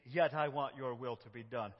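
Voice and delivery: hurried straight into surrender; rushed. Shown as a demonstration. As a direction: skip the pause, go right on. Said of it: "we move very quickly".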